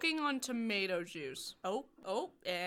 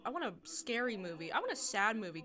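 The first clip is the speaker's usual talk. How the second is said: excited filmmaker. Retold or imitated. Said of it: "the people that made it were like".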